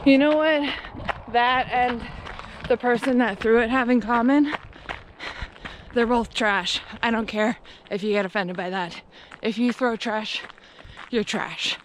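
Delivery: heated rant at litterers. Real, not acted. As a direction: let the anger rise, then bite. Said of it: "Sorry, I got a little heated there".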